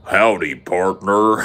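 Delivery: mock cowboy American drawl; bad American accent. A Brit asked for an American accent, hammed-up cowboy. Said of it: "they all lower their voices".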